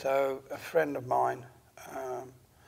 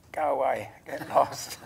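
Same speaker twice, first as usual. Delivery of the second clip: telling it off; 5 dB louder than usual. Retold or imitated. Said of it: "I don't say that loud".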